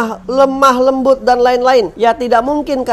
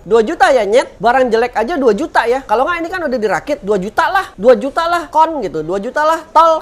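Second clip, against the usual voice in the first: imagined rude buyer insulting the seller over the price; mock rude buyer; 3 semitones higher than usual. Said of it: "Dia nggak bilang".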